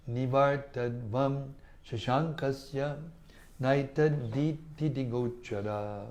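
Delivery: slow, measured recitation of a Sanskrit verse; scripture verse recited slowly. Shown as a demonstration. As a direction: intone the sloka deliberately.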